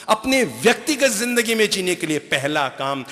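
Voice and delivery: normal talking voice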